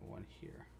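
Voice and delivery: whispered count under the breath. Real, not acted. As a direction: whisper it to yourself. Counting stitches twice.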